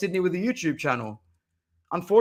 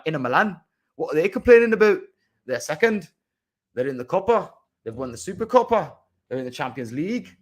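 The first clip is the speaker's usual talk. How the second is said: lightly put-on British accent, mocking foreign fans; 2 semitones lower, faster than usual. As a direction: faintly mimic a smug British pundit. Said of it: "or some stupid British accent like that".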